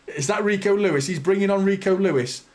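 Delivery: laughing through the name; laughing disbelief. Real, not acted. Fan laughing at the manager's substitution, disbelieving laugh. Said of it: "Is that Rico Lewis I see coming on?".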